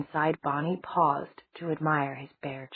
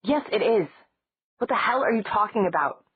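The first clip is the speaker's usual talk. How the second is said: loud, higher angry shout; 6 semitones higher, 4 dB louder than usual. Acted. Matt losing his temper with Stefan, shouting. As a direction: yell it back at him. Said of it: "Matt shouted".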